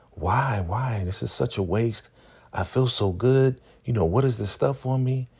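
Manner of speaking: high, dreamy whine; mock plaintive protest. Drugged Laura protests being washed.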